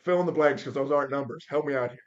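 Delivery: loud, insistent plea for an explanation; exasperated demand. Retold or imitated. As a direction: retell it as a loud, baffled demand. Demands explanation of the formula, retold.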